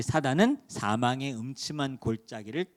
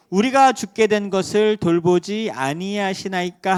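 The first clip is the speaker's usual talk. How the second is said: desperate plea; 4 semitones higher, 8 dB louder than usual. Acted. Disciples crying out in the storm.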